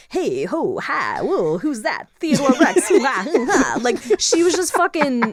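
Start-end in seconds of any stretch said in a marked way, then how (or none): 0.1-3.8 swooping, aimless, babbling voiceover voice. Mocking an actor's random voiceover in a movie: imitating Carol Kane's voiceover. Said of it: "It sounds like they literally just pushed her into a voiceover booth".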